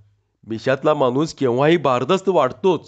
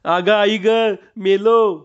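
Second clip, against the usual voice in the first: mild yelp of pain, pitched up; a hammed-up howl of pain; crying out; 5 semitones higher, slower than usual. A narrator's reading. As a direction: cry out as the punch lands. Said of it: "मोठ्यांदा ओरडला".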